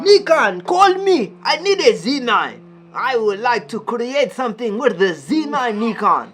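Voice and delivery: mock plea. Begging a brand for camera.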